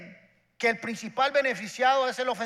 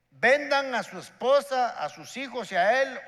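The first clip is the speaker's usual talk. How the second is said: king's stern command; 3 semitones higher, 4 dB louder than usual. Acted. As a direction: hand down the sentence like a harsh king. King orders debtor's family sold.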